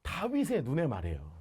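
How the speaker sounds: ordinary delivery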